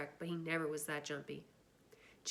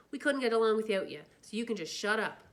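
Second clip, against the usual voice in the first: louder, forceful comfort; fierce affection; 4 semitones higher, 6 dB louder than usual. Acted. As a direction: insist firmly. Two-Bit fierce to Johnny.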